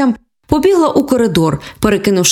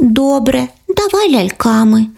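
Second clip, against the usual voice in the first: sad; 4 semitones higher, slower than usual. Acted. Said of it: "із сумом у голосі".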